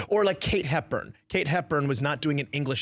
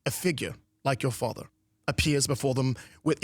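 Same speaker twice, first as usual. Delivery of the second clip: measured, lower mid-Atlantic stage speech; mid-Atlantic accent; 4 semitones lower than usual. Shown as a demonstration. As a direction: recite Shakespeare in a light mid-Atlantic dialect. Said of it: "try to do that mid-Atlantic thing".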